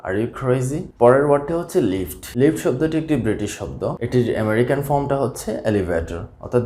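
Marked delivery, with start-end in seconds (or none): 0.1-0.8 American example. Shown as a demonstration. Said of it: "আমেরিকানরা এভাবে বলে থাকে".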